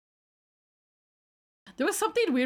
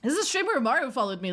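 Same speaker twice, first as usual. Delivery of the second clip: rushed repeat; 4 semitones higher, much faster than usual. Shown as a demonstration. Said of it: "Oh, look".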